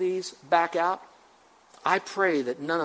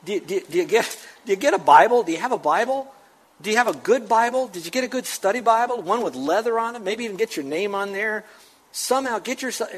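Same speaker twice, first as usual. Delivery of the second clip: rising, louder pleading preacher; preaching; 2 semitones higher, 3 dB louder than usual. Real, not acted. Pastor urging the church to get Bibles, building fervent preaching. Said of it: "I know I sound like a preacher".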